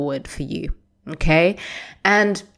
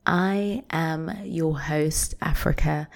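whisper; 5 dB quieter, slower than usual. Real, not acted. Intimate podcast intro.

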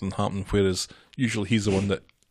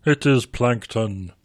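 very slow, drawn-out put-on voice; weird impression; much slower than usual. Announcing the Plankton villain to a co-host, weird impression. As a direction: draw it right out like an odd impression. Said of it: "That was a weird impression".

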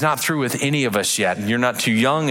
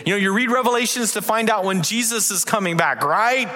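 mock know-it-all; 8 semitones higher than usual. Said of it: "Some people read Revelation and they go".

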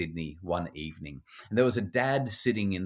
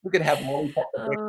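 playful excitement; 7 semitones higher, 4 dB louder, faster than usual. Retold or imitated. Mother playing fantasy game.

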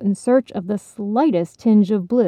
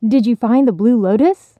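a louder, eager asking; excited question; 3 semitones higher, 5 dB louder than usual. Acted. Fish eagerly pressing the frog, louder. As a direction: bubble over with curiosity. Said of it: "they asked excitedly".

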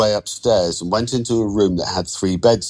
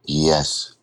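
low, hesitant assent; 3 semitones lower than usual. Acted. Cowed borrower answering the lender's threat, hesitant. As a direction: give in uncertainly. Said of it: "Andre said hesitantly".

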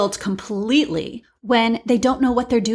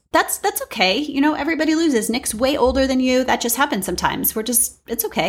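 retold consoling, pitched up at the start; reassuring; 3 semitones higher than usual. Speaker to a crying ten-year-old who lost, reassuring. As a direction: gently talk a child down in a higher voice.

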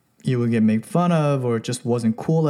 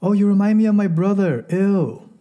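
put-on higher, louder girlish voice ending in a disgusted ew; higher mock girl voice recoiling from the guy; mock disgusted woman; 6 semitones higher, 3 dB louder than usual. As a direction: play the woman brushing him off with an eww. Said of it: "you hear that".

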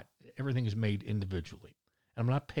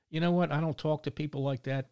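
indignant outburst; 4 semitones higher, 3 dB louder than usual. Real, not acted. Ranting about the rude lady.

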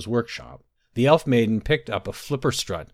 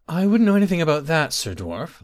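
high, quick, louder denial from a nervous maid; 6 semitones higher, 3 dB louder than usual. A narrator's reading. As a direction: blurt it high, then drop on the address. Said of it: "wringing her hands nervously".

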